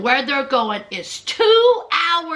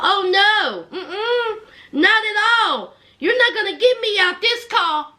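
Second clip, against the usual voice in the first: higher, emphatic imitation of a defiant sister; emphatic refusal; 4 semitones higher than usual. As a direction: retell it as a firm, rising-energy refusal. Sister's escalating refusal, acted.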